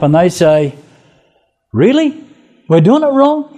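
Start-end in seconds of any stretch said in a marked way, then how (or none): 1.7-3.5 high, incredulous mock surprise; surprised. Ninevites answering the prophet, high mock surprise. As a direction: act amazed you had it wrong.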